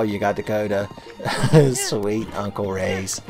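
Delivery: mock Midwestern folksy accent, slow and laughing; a bad Midwestern hick accent, drawn out through a laugh. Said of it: "what bad accent I gave them".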